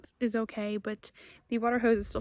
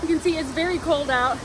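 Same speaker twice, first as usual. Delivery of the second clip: out of breath; 4 semitones higher than usual. Real, not acted. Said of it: "my legs are burning".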